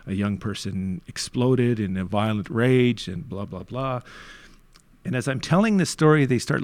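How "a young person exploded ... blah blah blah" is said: professional tone. Retold or imitated. Explaining what happened to the board, in a mock professional tone. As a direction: recite it like a dry incident report. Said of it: "in more of a professional tone".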